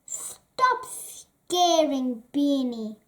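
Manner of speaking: put-on slow, firm older brother; understated stern telling-off; stern rebuke. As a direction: put an end to the teasing. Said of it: "said Biffa sternly".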